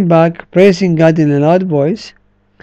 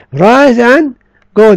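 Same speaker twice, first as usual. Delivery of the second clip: emphatic command; 4 semitones higher, 4 dB louder, slower than usual. Acted. Preacher repeating Jesus' command.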